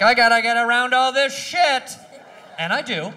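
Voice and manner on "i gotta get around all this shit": higher, louder frustration; frustrated shout. Retold or imitated. Driver shouting at traffic in his way. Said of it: "I'm like".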